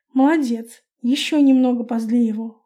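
ordinary delivery

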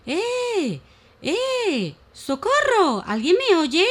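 high shouted cries for help; frightened high calls for rescue; calling for help. Acted. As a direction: yell up from the bottom of the hole. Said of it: "comenzó a pedir ayuda".

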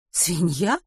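asking it back, rising in doubt; puzzled question. Acted. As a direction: repeat the word as a puzzled question. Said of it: "переспросила Рут".

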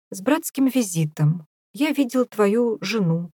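slight pause, then lean on жену; pause before жену. Acted. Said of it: "Крохотная пауза перед словом «жена»".

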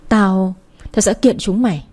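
put-on slow, faltering threat from a beaten girl; weak voice. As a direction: drag the words out, barely holding on. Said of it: "Nó nói bằng cái giọng yếu ớt". (giọng yếu ớt, chậm rãi)

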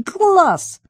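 very high, loud squeal of glee; delighted squeal. Acted. Henrietta thrilled by bank robbery idea, squealing. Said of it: "взвизгнула от восхищения".

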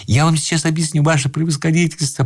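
high, tearful explanation; an understated tearful plea; sobbing. A narrator's reading. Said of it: "рыдая и всхлипывая".

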